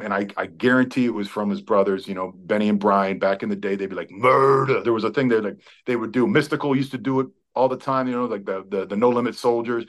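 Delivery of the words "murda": drawn-out mock war cry; half-voiced imitation of a rallying scream; imitated scream. Player imitating teammate's street rallying cry, mock scream. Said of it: "he would always scream".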